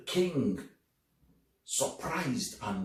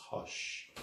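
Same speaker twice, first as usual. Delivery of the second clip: a breathy shh to quiet the room; soft whispered hush; 8 dB quieter than usual. Acted. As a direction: whisper hush to settle listeners. Storyteller hushing the audience.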